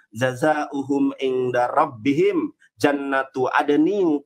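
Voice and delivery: reciting scripture to the debate audience; Quran recitation. Acted. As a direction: intone the verse reverently.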